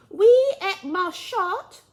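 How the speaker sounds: slow, high, loud French through a laugh. Acted. Alice tries her French on the mouse, laughing. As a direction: laugh while trying the French.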